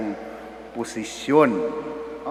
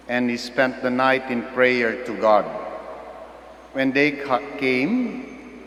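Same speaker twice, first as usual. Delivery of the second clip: solemn measured Gospel reading; Gospel proclamation. Acted. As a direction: proclaim each name deliberately.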